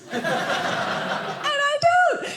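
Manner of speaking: slow, pointed And I don't; coy, teasing And I don't; drawn out. Shown as a demonstration.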